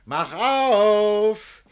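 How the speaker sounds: high, loud order to open; loud demand. Acted. Master shouting at servants to open the door. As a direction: bark it at the servants.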